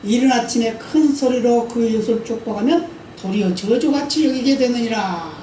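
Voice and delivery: measured, slightly slow scripture read. Shown as a demonstration. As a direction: read it as holy text. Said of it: "이런 말씀하고 있어요".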